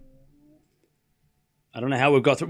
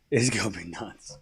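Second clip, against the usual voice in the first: much lower and softer, a low murmured echo; hushed aside; 8 semitones lower, 10 dB quieter than usual. Acted. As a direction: mutter it to yourself. Repeats hype line in aside.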